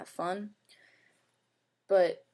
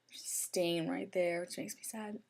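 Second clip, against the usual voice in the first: whisper; 6 dB quieter than usual. Real, not acted. Pointing out a stain sadly.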